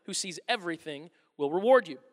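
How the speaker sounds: measured, earnest Bible reading; scripture reading. Acted. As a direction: read the passage as sacred text. Reads the scripture passage aloud.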